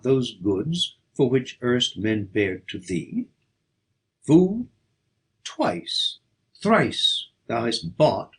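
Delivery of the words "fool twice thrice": loud, high, scornful "Fool"; scornful cry. Acted. Poet scolding the foolish suitor, loud scornful cry. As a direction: fling the word out as a rebuke.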